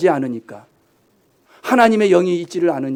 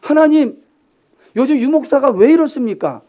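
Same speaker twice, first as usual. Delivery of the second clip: high, loud exasperated plea to God; self-mocking plea; 8 semitones higher, 7 dB louder than usual. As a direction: pastor mocking his own grumbling to God, exasperated. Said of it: "유 목사가 요즘 한번 생각해 봤어".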